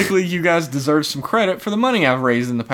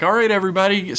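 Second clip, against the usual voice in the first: loudspeaker announcement; 7 semitones higher, faster than usual. Retold or imitated. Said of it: "they were like".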